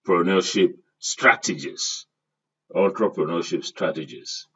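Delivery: ENTREPRENEURSHIP begun with "ON-tro"; careful pronunciation. Shown as a demonstration. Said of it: "mind how I pronounce this word".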